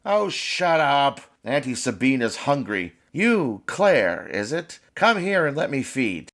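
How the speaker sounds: put-on a greedy old witch eyeing her meal; hungry witch. Witch Sabine hungry for the child.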